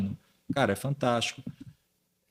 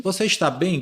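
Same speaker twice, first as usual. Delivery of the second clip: higher-pitched imitation of misplaced concern; mock worried question, pitched up; concerned intonation; 6 semitones higher, 3 dB louder than usual. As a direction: ask as if the listener were ill. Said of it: "Como se você tivesse doente".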